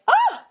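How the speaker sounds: high, sudden fangirl shriek; starstruck squeal. Retold or imitated. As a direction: squeal in delighted shock. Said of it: "And I was like".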